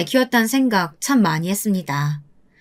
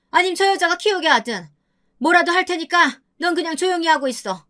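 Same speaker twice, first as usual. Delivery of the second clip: put-on higher, harsh scolding old woman; scolding mother-in-law; 6 semitones higher than usual. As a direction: berate the daughter-in-law from above. 시어머니가 며느리를 꾸짖음. (며느리를 깔보며 호통치는 시어머니 목소리)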